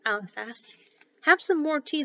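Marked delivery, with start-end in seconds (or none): 1.2-2.0 higher, louder, earnest offer; sincere. A narrator's reading. March Hare offers Alice tea, sincerely. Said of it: "said to Alice very sincerely".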